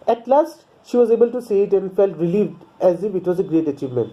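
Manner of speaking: slow, careful read-aloud of the English text; measured storybook reading pace; slow story reading. A narrator's reading. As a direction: read each sentence out slowly for the class. Reads English story text slowly.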